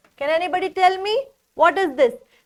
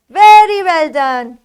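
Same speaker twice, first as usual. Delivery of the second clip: much louder, emphatic well done; loud praise; 11 dB louder than usual. Pretend. Teacher praising the class, loud and emphatic. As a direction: cheer the class on.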